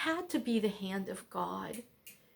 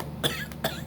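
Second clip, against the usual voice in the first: choking cough. Real, not acted. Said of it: "that went down the wrong way".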